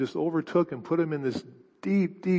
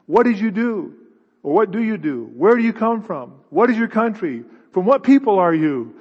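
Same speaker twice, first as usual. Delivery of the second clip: demanding sailors; 3 semitones higher, 4 dB louder than usual. Acted. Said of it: "and they says".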